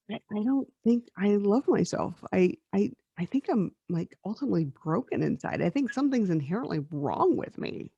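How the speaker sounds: soft, halting admission; sad confession. Retold or imitated. Confiding in a friend on the phone, sad. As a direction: re-enact a hurt confession, hushed and hesitant. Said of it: "I was sad that day".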